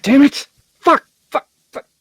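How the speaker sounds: loud frustrated swearing; frustrated cursing. Acted. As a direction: curse in exasperation. Frustrated outburst at decision.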